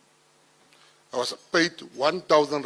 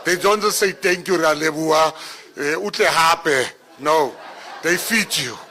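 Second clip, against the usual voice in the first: laughing; 6 dB louder than usual. Real, not acted. Laughing about dessert at school.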